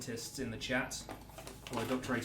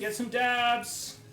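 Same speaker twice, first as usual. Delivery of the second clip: higher, louder, slow hype call; hype shout; 9 semitones higher, 5 dB louder, much slower than usual. Acted. Cheering shout.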